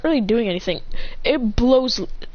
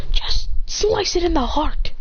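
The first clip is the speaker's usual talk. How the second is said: raised, drawn-out battle command; acted insistent call, pitched up; urgent order; 7 semitones higher, slower than usual. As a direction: order a teammate to strike. Akane shouts orders mid-battle.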